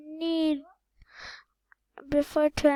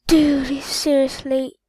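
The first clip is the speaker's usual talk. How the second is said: exasperated call; 9 dB louder than usual. Real, not acted.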